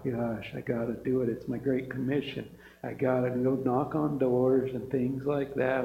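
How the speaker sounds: lightly voiced grudging churchgoer; reluctant grumbling. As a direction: sound like you'd rather not bother. Mocking a reluctant believer.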